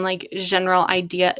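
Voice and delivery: accidental French accent on "general". Real, not acted. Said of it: "Why did I say that with a French accent?".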